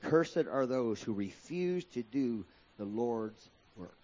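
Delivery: "Cursed" stressed, words drawn out slowly; grave memory verse; slow solemn quote. Shown as a demonstration. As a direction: say it slow so they remember, weight on "Cursed". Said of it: "you need to keep that".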